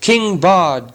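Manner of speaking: hammed-up cheer for a new king; crowd shout. A narrator's reading. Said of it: "they shouted".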